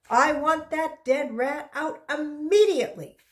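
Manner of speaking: the teacher laying down the law; stern command. Acted. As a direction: demand it be gone now. Teacher orders rat removed.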